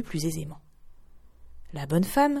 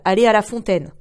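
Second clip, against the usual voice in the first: rude refusal; 2 semitones higher, 6 dB louder than usual. Acted. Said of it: "répondit la brutale".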